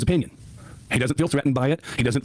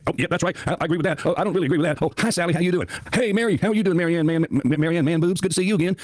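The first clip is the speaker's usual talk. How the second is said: higher, chirpy imitation of an over-friendly chatter; mocking Bo's greetings; 4 semitones higher than usual. Host mocks a chatter greeting everyone, higher mock voice. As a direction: parody someone greeting everyone by name. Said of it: "Bo had something to say".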